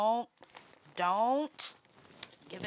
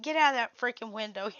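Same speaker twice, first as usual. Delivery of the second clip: fast, louder playful order; mock scold; 3 semitones higher, 6 dB louder, faster than usual. Telling Cindy to leave the window, fast mock scold. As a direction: snap it out quickly, half laughing. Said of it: "I said".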